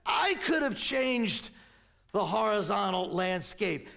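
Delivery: impassioned, deliberate preaching as an indignant king; intense incredulous outcry. Acted. Preacher voicing David to Ishbosheth's killers, intense indignant declamation. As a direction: drive each declaration home with exasperated force. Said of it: "you gotta see that kind of intensity here".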